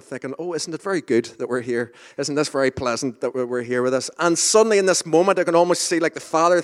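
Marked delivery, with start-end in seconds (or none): 0.4-4.1 lightly put-on posh English accent. Preacher imagines Peter reacting politely, in a light posh English accent. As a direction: say it like a mildly posh English person. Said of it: "in, a, in an English posh accent".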